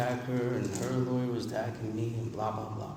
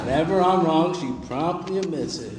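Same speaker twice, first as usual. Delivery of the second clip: laughing while repeating; 5 semitones higher, 5 dB louder than usual. Real, not acted. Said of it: "she does a great ten step whenever I'm wrong".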